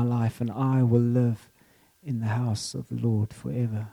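slow, measured psalm reading; scripture reading. Acted. Preacher reading King David's psalm to the congregation, slow scripture reading. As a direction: read it phrase by phrase, unhurried.

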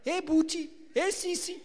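a lightly hammed-up friendly call; mock high-pitched greeting. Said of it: "He won't say that to Tannie Jenny".

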